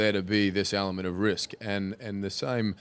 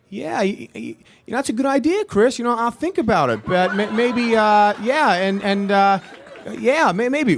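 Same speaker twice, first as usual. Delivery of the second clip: much higher and louder, a hesitant nice-guy director; Ron Howard voice; 13 semitones higher, 8 dB louder than usual. Retold or imitated. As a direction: play the kind director dodging a no, pitched up high and loud. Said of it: "two Niki Laudas and one Ron Howard".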